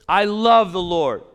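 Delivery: loud, stressing love; emphatic declaration. Acted. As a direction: declare it to the whole room. Preacher voicing psalmist.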